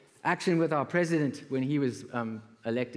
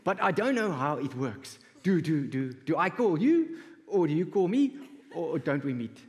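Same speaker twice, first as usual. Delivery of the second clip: eager caller voice; 4 semitones higher than usual. Retold or imitated. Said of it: "He said".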